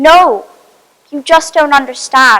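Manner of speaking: mock frantic, very panicked yet furious outburst. Retelling in a speech what Ellie said: retelling Ellie's panicked, angry tone. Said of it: "in a very panicked but also angry tone".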